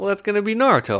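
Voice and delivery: high and fast, hammed-up; high excited mock voice. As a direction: squeak it out quickly. Voicing characters in anime recap.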